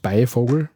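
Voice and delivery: BEIVOGEL in dialect, without the N; dialect pronunciation. Shown as a demonstration. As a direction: say BEIVOGEL with no N after BEI. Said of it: "also eigentlich sagst Beivogel".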